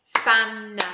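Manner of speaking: Spanner said loud in two clapped beats; clapping out syllables. Shown as a demonstration. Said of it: "count the syllables now".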